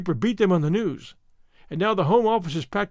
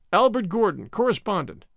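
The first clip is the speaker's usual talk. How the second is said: solemn announcement, like fate speaking; impressive. A narrator's reading. Stedman reads the next cable, like the voice of fate. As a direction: read the name out with some weight. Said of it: "impressively, like the voice of fate".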